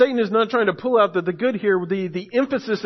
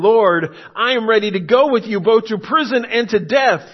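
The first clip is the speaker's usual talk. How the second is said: a louder, earnest protest; Peter's eager vow; 3 semitones higher, 5 dB louder than usual. Retold or imitated. Pastor voicing Peter's pledge to Jesus, louder and earnest. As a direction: swear it out, all in.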